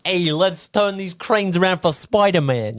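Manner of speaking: a bad, slow New York accent; a construction worker in New York. Co-host mimics the crane workers in a bad New York accent. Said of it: "Is that your New York accent".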